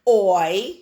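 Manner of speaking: oi said alone, loud and clear; sounding out oi. Shown as a demonstration. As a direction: say the sound oi by itself. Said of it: "Say it with me now".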